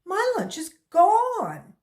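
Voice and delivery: high, loud call across the room; boy calling to his teacher about his lunch. Acted. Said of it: "he called".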